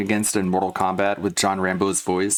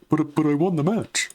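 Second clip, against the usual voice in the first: pitched-up squeezed nasal voice, now nailed; nasal John Rambo impression; 6 semitones higher than usual. Shown as a demonstration. Recording a line for an animation, the nailed nasal John Rambo. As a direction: talk as if the brain sits inside the nose. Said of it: "That's more like it".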